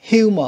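"Humor" with the H pronounced; sounded H. Shown as a demonstration. Teacher contrasting with silent letters, sounded H in "Humor". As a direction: open "Humor" on an audible H. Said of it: "cũng này có đọc".

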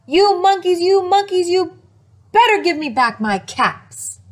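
loud scolding of the monkeys; angry shout. Acted. Angry peddler shouting up at the monkeys. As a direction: shout at them, really mad. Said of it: "Now he felt quite angry".

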